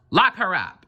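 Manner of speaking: high, commanding yell; ringmaster shouting. A narrator's reading. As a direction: order her locked up. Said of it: "shouted the ringmaster".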